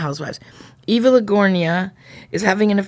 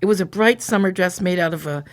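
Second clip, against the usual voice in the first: measured reading with pauses between phrases; story narration. A narrator's reading. Describing the dress bubby made as a present, in a narrating voice. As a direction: narrate it evenly, as from a page.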